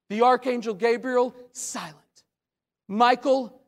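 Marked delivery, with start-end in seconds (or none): 1.5-2.2 very soft one-word drop; hushed. Acted. Preacher reporting the archangel Gabriel has no answer, hushed. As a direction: drop it to a hush. Preacher drops voice to show silence.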